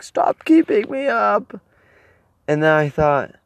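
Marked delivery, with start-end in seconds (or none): 0.0-1.6 higher, slower fed-up complaint; a touch of petulant anger; mock annoyance. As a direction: grumble it at the noisy people.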